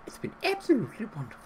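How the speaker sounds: high, quick, prim nanny lilt; Mary Poppins voice. Shown as a demonstration. Repeating the line to viewers as Mary Poppins. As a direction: chirp it like a cheerful storybook nanny. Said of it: "I sounded like Mary Poppins".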